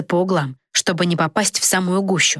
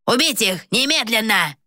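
sharp, higher barked command to kill; barked order; 5 semitones higher than usual. A narrator's reading. King barking at his guards to kill. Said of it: "рявкнул Волик стражникам".

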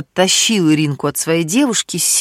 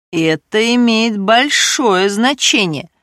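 voice about to break; 4 semitones higher, slower than usual. Acted. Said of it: "Голос Миронова вдруг повело".

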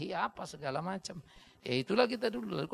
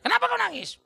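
high loud mock father; stern father asking; father's question; 7 dB louder than usual. Father asking crying son after a fight, mock stern.

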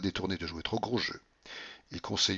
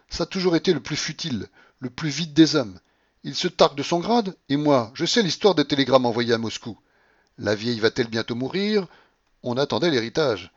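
high, raised-voice contempt; indignant tirade; 5 semitones higher, 5 dB louder than usual. A narrator's reading. Babouchka to Paulina about the general, indignant. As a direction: pour scorn on the whole scheme.

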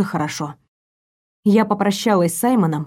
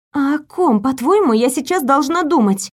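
surprised; 4 semitones higher than usual. Acted. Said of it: "не скрывая удивления".

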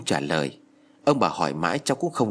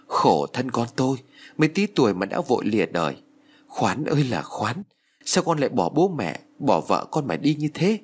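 mild lament. Acted. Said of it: "Bà lấy tay quệt nước mắt mà nói".

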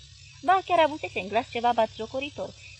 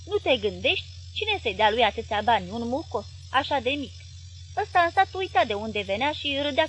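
louder, lightly voiced sneering husband; scornful husband; 4 dB louder than usual. Husband mocking his nephew to his wife, lightly scornful. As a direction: sneer at the boy.

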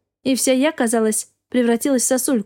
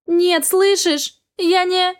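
much higher, very slow pleading cry; tearful plea; 7 semitones higher, much slower than usual. Acted. Wife begging her husband through tears.

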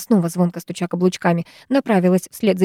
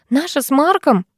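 сердито; 6 semitones higher than usual. A narrator's reading. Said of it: "рассердилась я".

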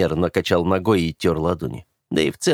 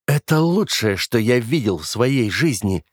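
slow, savoring every word; slowly; 4 semitones higher than usual. Acted. Brother slowly relishing the blackmail photos. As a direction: draw it out like a treasure found. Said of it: "медленно проговорил Оливер".

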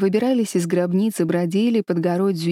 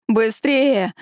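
hoarse shout; 3 semitones higher, 4 dB louder than usual. Acted. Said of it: "хрипло кричал".

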